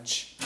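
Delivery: "ch" as a bare Spanish affricate, no vowel; CH sound. Shown as a demonstration. Teacher naming the sound French lacks, bare "ch". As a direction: sound out "ch" like a short sneeze. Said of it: "refiriéndome al".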